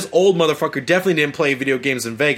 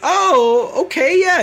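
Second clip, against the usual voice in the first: high, eager naive yes; high gullible agreement; 11 semitones higher, 3 dB louder, much slower than usual. Retold or imitated. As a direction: squeak out an easily convinced okay. Voicing gullible everyone.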